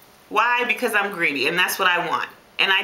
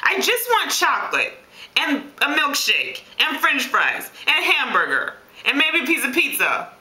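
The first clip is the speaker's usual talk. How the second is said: lightly whiny, higher-pitched craving; pity party; 4 semitones higher than usual. Acted. Dieter pitying herself over banned foods, mock whine. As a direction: list each craving like a mild sulk. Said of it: "I'm having this pity party".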